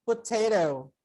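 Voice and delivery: "potato" said with no ending; singular potato. Shown as a demonstration. Teacher contrasts singular for students, plain "potato". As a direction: model "potato" as one item, ending on the O. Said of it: "if only one".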